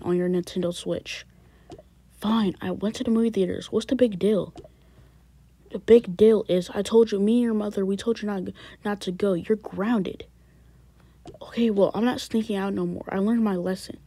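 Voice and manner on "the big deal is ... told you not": loud stern father; angry scolding. Acted. Father scolding his son for sneaking out. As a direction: raise your voice to scold.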